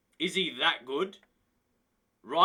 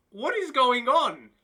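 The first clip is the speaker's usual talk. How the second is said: laughing disbelief; 5 semitones higher, 5 dB louder than usual. Real, not acted. Laughing at absurd player stats.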